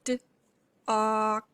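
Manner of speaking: "D" and "og" said apart with a pause between; sounding out dog. Shown as a demonstration. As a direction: break "dog" into "D", pause, then "og". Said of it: "say each sound in the word dog".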